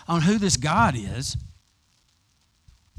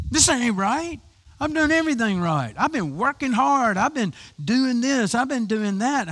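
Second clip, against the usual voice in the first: put-on offended older brother; 6 semitones higher than usual.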